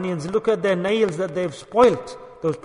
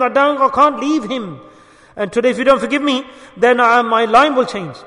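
raised, urgent begging in a storyteller's voice; retold desperate plea; 3 semitones higher, 4 dB louder than usual. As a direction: plead loudly as the retold husband. Husband begging wife's forgiveness, retold.

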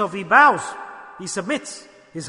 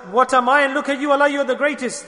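awed servant's plea; 6 semitones higher, 5 dB louder than usual. Acted. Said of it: "He says".

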